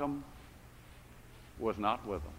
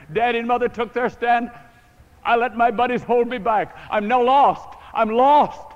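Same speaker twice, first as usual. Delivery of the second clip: loud, tearful cry of despair; crying prayer; 3 semitones higher, 7 dB louder than usual. Retold or imitated. Lost young man crying out on the sidewalk, tearful and loud. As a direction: wail it out like a lost soul. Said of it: "his prayer and his cry went something like this".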